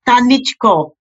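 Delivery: lightly imitated Hungarian accent on Tanichko, said TAH-nitch-ko; a hint of an older Hungarian woman saying Tanichko fondly. Retelling how an elderly Hungarian friend greets the author, lightly imitating her Hungarian accent. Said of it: "in her accent".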